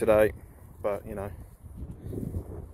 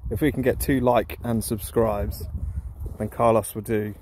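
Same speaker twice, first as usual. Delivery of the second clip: slurred speech. Real, not acted. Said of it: "please excuse my slurred voice".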